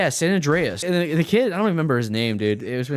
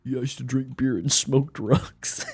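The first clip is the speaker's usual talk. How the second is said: laughing. Retold or imitated. Laughing while quoting the kid.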